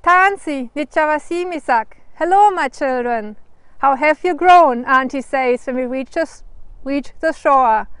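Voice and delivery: unhurried, measured storybook narration; picture-book reading with careful pauses; story read-aloud. Acted. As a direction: read it to children phrase by phrase, with pauses.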